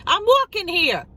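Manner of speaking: a hint of a New York street yell; tossed off like the movie line; mock Dustin Hoffman. Quoting the movie line back at the guy, lightly. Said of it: "he goes".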